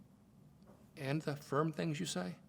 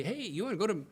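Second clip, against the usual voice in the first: mom's bright and cheery invitation, pitched higher; 4 semitones higher than usual. Retold or imitated. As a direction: sing it out like a cheerful mom covering up. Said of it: "bright and cheery and say".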